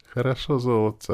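high, tender reply; affectionate. A narrator's reading. Man agreeing as he parts from her, affectionate. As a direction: lift the voice into a sweet endearment. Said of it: "ответил я ласково".

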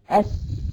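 اس whispered with a hissing س; sakin letter demo. Shown as a demonstration. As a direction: hiss out اس, teeth closed on the س. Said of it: "لما اجي اقول لك مثلًا". (نطق اس بسين ساكنة مهموسة)

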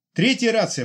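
high, loud excited cry; exclaiming. Acted. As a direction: blurt it out, surprised. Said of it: "воскликнул Старлей". (старлей удивлённо восклицает)

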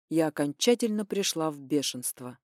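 ordinary delivery

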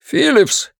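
high, desperate call into the radio; frantic shout. Acted. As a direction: yell the name, panicking. Officer calling over radio.

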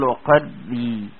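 وقري said slowly with a thin ر; light ر in وقري; light Raa. Shown as a demonstration. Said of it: "هتقول".

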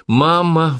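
sudden high cry of Mama; blurted out. A narrator's reading. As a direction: blurt it out, startled. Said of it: "выпалила она".

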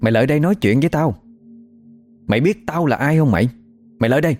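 possessed yelling. Retold or imitated. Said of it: "la quá trời quá đất luôn".

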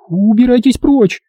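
high, sharp hissed order. A narrator's reading. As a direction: spit the words out at him. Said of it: "прошипела она". (вдова шипит, прогоняя рассказчика)

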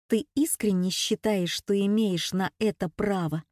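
every word spelled out slowly and hard; hard, slow and precise. A narrator's reading. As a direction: lay each word down firmly, slowly. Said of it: "жёстко, чётко и медленно выговаривает слова". (жёстко, чётко и медленно)

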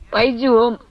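tearful. A narrator's reading. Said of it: "плаксиво сказала".

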